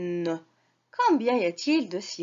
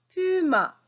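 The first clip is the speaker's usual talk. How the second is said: high repeat; 8 semitones higher than usual. Shown as a demonstration. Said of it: "Répétez".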